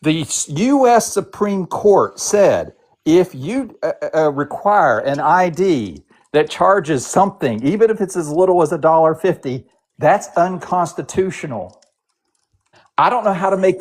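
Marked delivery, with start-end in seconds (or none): 0.0-11.8 slow, patronizing explanation; slow explaining. Real, not acted. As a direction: spell it out slowly, word by word. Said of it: "Maybe I'm not being clear".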